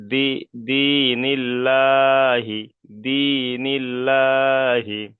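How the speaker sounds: দীনিল্লাহি chanted slowly with a thin, light "lla"; light Allah. Shown as a demonstration. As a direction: draw out দীনিল্লাহি in Quranic recitation. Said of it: "বারিক অর্থাৎ লা করে পড়তে হবে".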